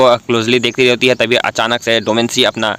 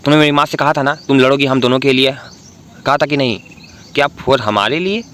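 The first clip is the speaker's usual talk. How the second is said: angry outburst; 2 semitones higher than usual. Acted. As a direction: finally snap at her about his mother. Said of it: "डोमेंसी को गुस्सा एक ही बार आता है". (हल्का ऊँचा गुस्से भरा सवाल)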